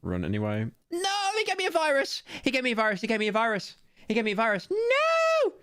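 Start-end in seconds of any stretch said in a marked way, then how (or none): 0.9-2.2 chipmunk-high squeaky complaint. Pretend. Replays squeaky edited voice clip. 2.4-4.7 high chipmunk repeat; squeaky high voice. Pretend. Repeating the squeaky clip line. 4.7-5.5 shrill high yelp of no; squeaky no. Pretend. Squeaky protest.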